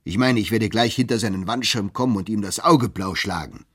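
loud angry threat, blustering; furious bellow. Acted. Clerk Turkey threatening to beat Bartleby, loud bellow. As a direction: roar the threat at the boss. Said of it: "brüllte Turkey".

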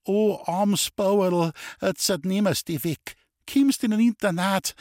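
high, loud wailing sympathy; pitying old woman. Acted. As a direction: lament like a pitying neighbour woman. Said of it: "zeigte tiefes Mitgefühl".

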